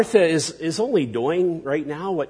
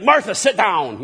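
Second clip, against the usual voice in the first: louder curt command, a mock scold; stern rebuke; 4 semitones higher, 5 dB louder than usual. What Jesus does not say to Martha, mock stern. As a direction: snap it like a mock impatient master. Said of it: "he's not that".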